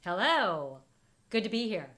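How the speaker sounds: lightly voiced puppet, barely changed; a hint of a hand puppet talking. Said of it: "a good puppet voice there".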